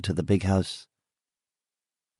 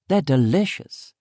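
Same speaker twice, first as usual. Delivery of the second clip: higher, slow, swooping delight; woman's character voice; 5 semitones higher than usual. Acted. Woman praising treats to narrator, high and delighted. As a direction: savour the word in a high voice.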